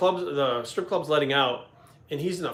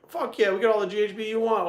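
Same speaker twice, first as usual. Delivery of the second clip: higher-pitched, eager yes; retold eagerness; 8 semitones higher than usual. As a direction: act out jumping at the chance. Acted eager answer to the star.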